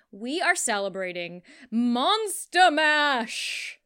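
excited announcement. Real, not acted. Announcing the month's theme.

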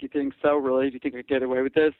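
lightly camp, quick drag queen voice; a hint of sassy drag queen; campy drag queen. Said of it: "I just started talking like this".

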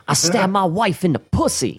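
quoting a prisoner, a mock shouted reply; shouted movie quote. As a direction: bark the line like a convict. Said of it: "What are you in here for".

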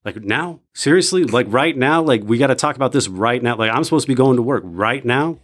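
incredulous complaint, pitch rising on seriously; exasperated. Retold or imitated. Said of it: "I'm like".

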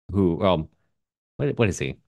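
ordinary talk, nothing marked

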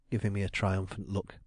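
plain reading voice

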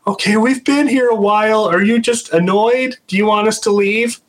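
high, careful questioning voice; placating question. Retold or imitated. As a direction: politely ask the spirit if it's annoyed. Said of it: "He's like".

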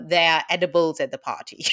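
laughing shout. Real, not acted. Laughing reveal.

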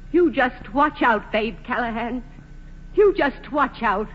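slow, deliberate warning; slow threat. Acted. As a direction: drag out the warning, each word a threat. Carrie threatens Babe Callahan.

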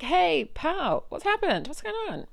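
high, loud demanding hey pal; retold indignant challenge; indignant question. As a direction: confront them in disbelief. Confronting editor.

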